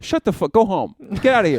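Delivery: rising to a high shout; mock angry tirade. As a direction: build from grumble to shouted dismissal.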